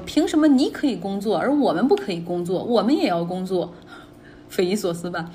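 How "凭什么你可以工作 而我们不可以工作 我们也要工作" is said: indignant mock yell with swooping pitch; imitated protester's shout. Protester yelling at medical staff, indignant imitation. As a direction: quote an angry protester, slightly raised voice. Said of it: "对着这个医护人员喊说".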